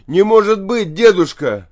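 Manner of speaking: high, loud cry of disbelief; frightened, pleading yell; desperate shout. A narrator's reading. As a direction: call out in alarm, pitch way up. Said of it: "кричит он".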